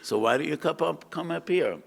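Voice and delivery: a lightly voiced sly fox luring the fish; wily fox. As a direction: sweet-talk the fish up out of the water. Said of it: "So the wily fox says".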